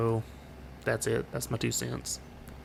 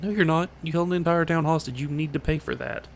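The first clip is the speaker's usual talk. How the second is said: higher-pitched, mock-indignant comeback; indignant retort; 5 semitones higher than usual. Viewer answering an excuse for Wanda's hostage-taking, indignant. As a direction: argue back at the excuse, pitch jumping up. Acted argument, rebutting an excuse.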